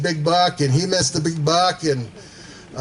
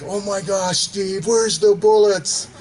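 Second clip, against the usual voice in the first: mildly panicked, higher-pitched quote; retold freak-out; 3 semitones higher, slower than usual. Hunting buddy begging Steve for bullets, mock freak-out. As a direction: mimic a hunter freaking out, drawing out the question. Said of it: "like, freaking out".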